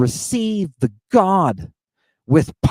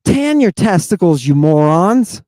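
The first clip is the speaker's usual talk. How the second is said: louder, scolding shout at the room; angry outburst; 2 semitones higher, 5 dB louder than usual. Real, not acted. Lecturer scolding the men in the audience, loud angry shout. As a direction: berate them like fools, full volume.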